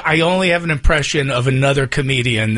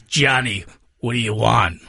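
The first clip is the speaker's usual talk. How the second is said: Elmer Fudd voice; 5 semitones lower than usual. Retold or imitated. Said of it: "I'll do it as Elmer Fudd".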